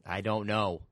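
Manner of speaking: podcast intro. Pretend. Host opening the podcast, mock-announcer intro. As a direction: build to a big podcast title.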